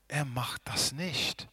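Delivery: slow, unvoiced whisper, Er stressed; hushed slow whisper. Shown as a demonstration. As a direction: whisper Er macht das nicht slowly, leaning on Er.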